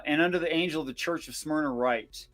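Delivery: measured, formal Bible reading; scripture reading. Acted. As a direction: read the verse like scripture. Reads scripture aloud.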